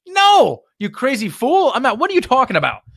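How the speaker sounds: high, loud mock disbelief, then quick; playing the friend who thinks you're nuts; incredulous friend. Friend asked for a hundred grand, mock high disbelief. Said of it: "They're gonna be like".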